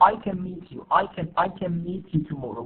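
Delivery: unstressed, weakened CAN gliding quickly into MEET; reduced can. Shown as a demonstration. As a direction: say "can" short and weak, leaning on "meet". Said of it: "We don't say".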